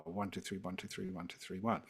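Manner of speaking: quick, even count with "one" leading each group; rhythmic waltz-like count landing on "one"; counted triple rhythm. Shown as a demonstration. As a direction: count in threes, leaning on "one", dropping off on "two, three". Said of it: "the rhythm in this piece is always triple".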